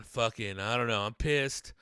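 ordinary talk, nothing marked

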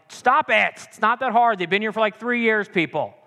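hammed-up fed-up outburst; mock road rage. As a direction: rant at clueless drivers, half in jest. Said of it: "I get so mad in roundabouts".

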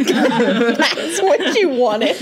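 slow, laughed-through words; laughing. Real, not acted. Teasing a friend over the duck noise, laughing.

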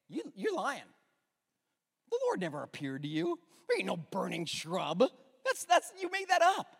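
scoffing doubter, rising to a loud high jeer; mock scornful townsfolk; mocking accuser. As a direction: sneer that he made it up. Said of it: "they say".

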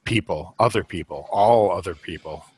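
groan, then grumble in weary fragments; crotchety old guy. Acted. Griping about everyone at the campsite, mildly crotchety old guy. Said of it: "a crotchety old guy who's like".

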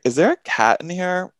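high, panicked question; alarmed question. Retold or imitated. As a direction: ask in sudden alarm.

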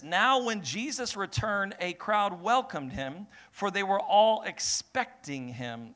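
slow, measured scripture reading; slow reading of the Bible verse. Acted. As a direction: read the verse slowly to the church. Reads scripture slowly.

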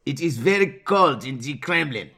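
amateur attempt at a Russian accent; a badly faked Russian accent. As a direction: have a go at a thick Russian accent. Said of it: "next one for you. Russian".

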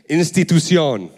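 the word said in Spanish pronunciation; Spanish-accented "institución". Shown as a demonstration. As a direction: say institución with a Spanish accent, stressed final syllable. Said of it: "with a different accent".

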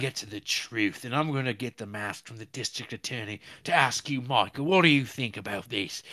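hammed-up British accent, earnest interrogator; mock British podcaster. Podcaster mocking British reporters questioning Michael, hammed-up British accent. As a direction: grill someone in an exaggerated British investigator's voice. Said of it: "these two intrepid British podcasters".

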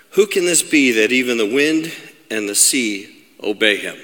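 measured, dramatic Bible reading; scripture reading. Acted. Preacher reads the storm story to the congregation, measured scripture reading. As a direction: read the passage with deliberate pauses.

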